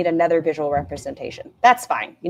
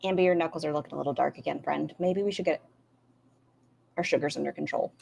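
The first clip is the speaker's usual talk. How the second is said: mock sweet concern; 2 semitones lower, 6 dB quieter, faster than usual. Voicing Emily's fake concern.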